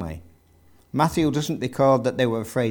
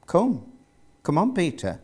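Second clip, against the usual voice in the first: simple invitation; 6 semitones higher than usual. A narrator's reading. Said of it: "Jesus answered simply".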